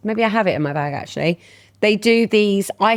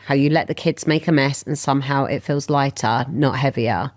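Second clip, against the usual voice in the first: measured, slightly lowered reading voice; affirmation read-out; 3 semitones lower than usual. Acted. Host reads the affirmation of the week to listeners, measured. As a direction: read it like a calm affirmation, pausing between phrases.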